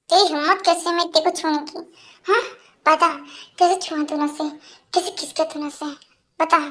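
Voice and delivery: low, controlled anger; restrained, threatening interrogation; angry confrontation. Acted. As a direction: demand an answer in a low, menacing voice. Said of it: "इतना गुस्सा क्यों कर रहे हो".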